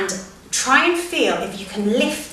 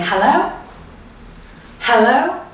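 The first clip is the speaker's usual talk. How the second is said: playful hip hello; 4 semitones higher, 3 dB louder, slower than usual. Shown as a demonstration. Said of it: "So you're saying".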